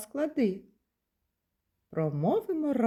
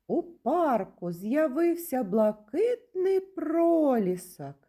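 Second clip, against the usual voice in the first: raised pitch, slow and emphatic; exclamatory intonation; 5 semitones higher than usual. Shown as a demonstration. Teacher demonstrates an exclamatory sentence, exclaiming with raised intonation. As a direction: exclaim it with feeling, drawing the words out. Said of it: "Воно вимовляється із підвищеною інтонацією".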